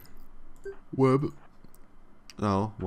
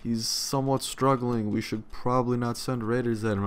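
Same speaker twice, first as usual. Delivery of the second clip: mock worried game; 4 semitones higher than usual. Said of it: "the game's like".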